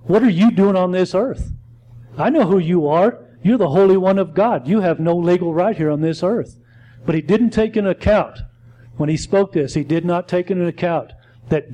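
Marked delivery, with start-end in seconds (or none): 0.0-6.6 demon's challenge. Retold or imitated. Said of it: "he was going".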